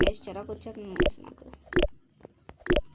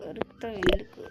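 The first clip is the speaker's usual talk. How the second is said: funny low voice; 4 semitones lower than usual. Pretend. Repeating the question in a funny voice.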